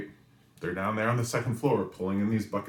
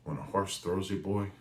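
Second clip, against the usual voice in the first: lightly imitated Texas drawl; a hint of a Texas accent; 3 dB quieter than usual. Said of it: "in his Texas drawl and his accent".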